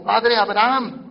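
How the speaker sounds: slow, loud plea crying out a name. Acted. The rich man in torment crying out to Abraham, loud and slow. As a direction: call out to Abraham, drawn out and loud. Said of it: "dando voces dijo".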